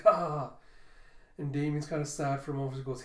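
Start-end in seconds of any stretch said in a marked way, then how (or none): 0.0-0.5 mock laughter. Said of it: "laughing and joking".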